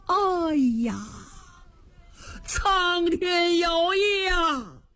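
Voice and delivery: slow, drawn-out weeping wail; tearful lament. Acted. Condemned official wailing that heaven wants their blood. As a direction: mourn it as a sign of doom.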